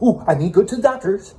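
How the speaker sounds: high, whiny mock of a compliant person; mocking sheep voice. To his audience, mocking those who obey, high and whiny. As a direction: sneer it like a gullible follower. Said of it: "You're not gonna go".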